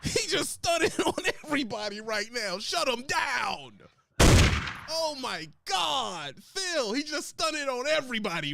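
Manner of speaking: high, hyped-up reaction; excited. Real, not acted. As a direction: hype up the burn. Host hypes the burn.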